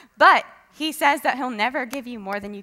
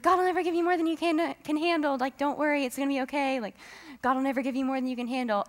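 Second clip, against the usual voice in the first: lightly voiced comforter, higher pitch; reassuring friend; 5 semitones higher, faster than usual. Friend comforting someone going through a trial, mock reassuring. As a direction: mimic a well-meaning friend soothing someone.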